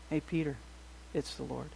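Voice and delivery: hushed, low, awed aside; quiet realization. Retold or imitated. John quietly telling Peter that it is the Lord, hushed. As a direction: breathe it to Peter like a secret.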